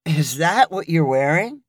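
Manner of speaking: lightly voiced critical question; a hint of judging her outfit. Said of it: "critically looking her up and down".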